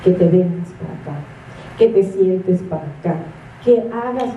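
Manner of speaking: quick low scolding, a touch put-on; rushed scolding parent. Preacher mimics a parent hurrying a stubborn child, fast and low. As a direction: rattle off the orders fast like a fed-up parent. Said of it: "la misma actitud que tenemos con".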